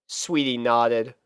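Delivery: ordinary delivery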